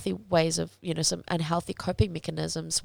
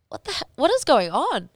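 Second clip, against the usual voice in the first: sudden, higher, louder alarm; trainer's alarmed outburst; 9 semitones higher, 5 dB louder than usual. Retold or imitated. Retelling how the trainer reacted in the heated argument, alarmed outburst. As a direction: fire it out like a startled coach mid-argument. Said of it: "he was like".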